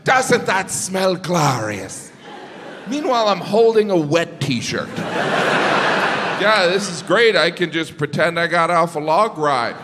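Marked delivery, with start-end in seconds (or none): 0.1-2.1 slow, savoring "glorious"; lightly voiced proud friend. Friend praising line-dried laundry, slow proud delight. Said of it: "She goes". 5.0-9.8 sarcastic. Retold or imitated. Comic replying to proud friend, sarcastic fake cheer.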